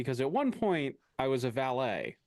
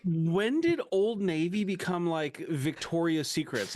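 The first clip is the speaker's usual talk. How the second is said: mock outrage; 4 semitones higher, slower than usual. Mock outrage at friend's story.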